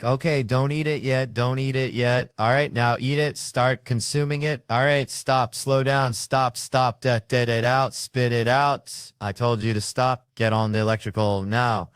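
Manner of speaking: barking orders at a client's every bite; a drill-sergeant chef, loud and commanding; bossy personal chef. Retold or imitated. Chef ordering his client when to eat, commanding. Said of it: "And he's like".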